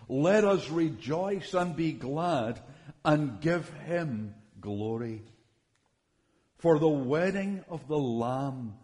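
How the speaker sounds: measured, unhurried Bible reading voice; scripture reading. Acted. Pastor reading Revelation aloud to the congregation, slow and reverent. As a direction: read it slowly like a lesson from the pulpit.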